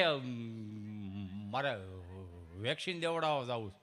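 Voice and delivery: a hint of a slow, low villager voice; lightly voiced shy villager; mumbling villager. Villager Gabho voiced in a story. (ગામઠી માણસનો અવાજ)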